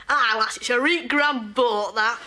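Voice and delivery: slow, lightly mocking Yorkshire lass voice; mock northern accent. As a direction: tease a northern accent, drawn out. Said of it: "pull it to pieces".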